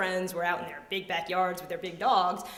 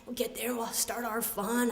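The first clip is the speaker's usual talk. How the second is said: higher, softer hopeful voice; trying to stay positive; 3 semitones higher, 3 dB quieter than usual. Retold or imitated. Kid in an overheated car, trying to stay positive. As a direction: reassure with forced optimism. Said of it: "I was trying to remain positive".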